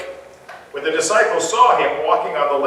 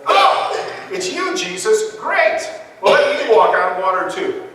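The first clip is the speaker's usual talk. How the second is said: mock casual; 3 semitones higher, 3 dB louder than usual. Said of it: "Is that how you would react".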